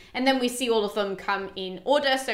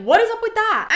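higher, half-hearted disbelief; an incredulous spectator, played up; mock surprise; 12 semitones higher, 7 dB louder than usual. Idomeneus exclaims at the race.

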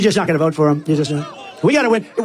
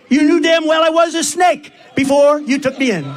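high, slow, emphatic snake's retort; lightly acted gloating villain, pitched up; grinning reptile; 7 semitones higher than usual. A narrator's reading. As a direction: deliver the snake's punch line to a crowd, drawn out. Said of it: "said the reptile with a grin".

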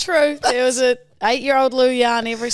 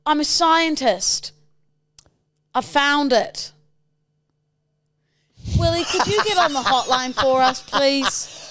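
scientist character. Acted. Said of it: "halfway through my character".

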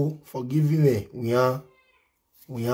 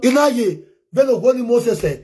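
mock wail; 8 semitones higher, 5 dB louder, much faster than usual. Mock wailing in Yoruba.

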